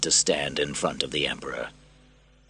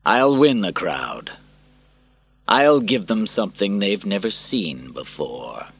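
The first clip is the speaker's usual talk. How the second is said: slow determined vow; 3 semitones higher than usual. Acted. Maximus vows slowly.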